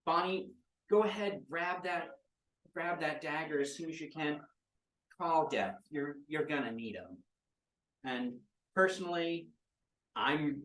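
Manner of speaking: a hint of a gleeful villain; eager villain urging. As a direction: egg her on, hungry for a fight.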